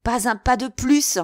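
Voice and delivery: loud, high order to halt; commanding shout. A narrator's reading. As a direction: shout down to a crowd. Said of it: "cria-t-il".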